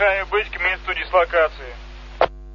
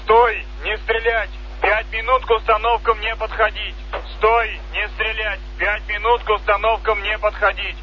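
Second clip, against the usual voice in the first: military commands; 4 semitones higher than usual. Real, not acted. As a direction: bark the stop order. Ceasefire order.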